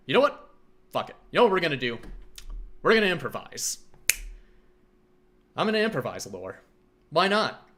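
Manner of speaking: loud, high, hyped up; pumped, declaring a plan; excited. Real, not acted. Hyped decision to improvise.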